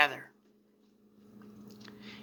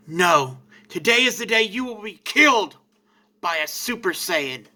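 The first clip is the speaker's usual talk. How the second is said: defiant scream. Acted. Vegeta, raised and defiant toward Frieza, yelling. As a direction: hurl it at Frieza like a battle cry. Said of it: "Vegeta screams".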